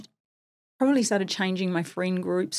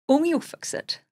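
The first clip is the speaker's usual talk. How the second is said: put-on higher, light little-boy voice; imitating toddler; 9 semitones higher, 4 dB louder than usual. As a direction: lift into a small child's voice. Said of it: "And he said".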